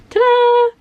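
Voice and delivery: high, loud, sing-out flourish; bright-eyed big unveiling, pitch way up; showy reveal. Real, not acted. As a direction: present it proudly like a magic trick. Revealing her toy to viewers.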